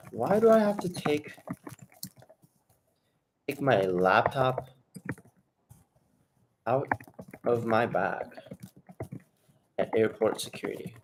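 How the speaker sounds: slow, drawn out, pausing between words; slow dictation. Shown as a demonstration. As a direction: dictate it slowly while writing it down. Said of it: "I'm gonna actually write this down".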